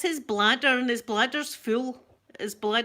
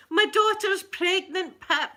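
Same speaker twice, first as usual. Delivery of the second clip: higher, louder and slow, bursting with the news; excited announcement; 10 semitones higher, 5 dB louder than usual. Real, not acted. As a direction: announce it proudly, loud and high. Repeats big news to a viewer.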